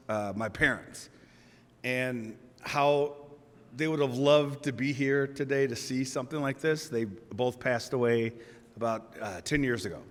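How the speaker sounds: real grief over late parents, softly; emotional, holding back. Real, not acted. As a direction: speak of lost parents gently, almost under your breath. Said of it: "it was emotional because".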